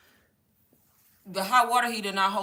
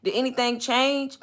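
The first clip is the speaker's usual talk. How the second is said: mock agent voice; 5 semitones higher, 3 dB quieter than usual. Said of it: "She was like, "Well, ma'am".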